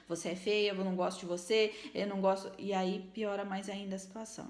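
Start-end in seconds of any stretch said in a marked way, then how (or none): 0.1-2.5 jab the words at her like a pointed finger; accusing scolding. Shown as a demonstration. Mother scolding her child with a finger pointed, harshly. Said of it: "com o dedo apontado e dizendo".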